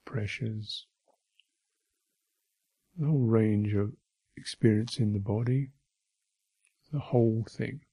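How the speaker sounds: unhurried meditation guidance with long silences; name each sensation, then leave space; guided meditation. Real, not acted. Teacher guiding listeners through bodily sensations, unhurried guided meditation.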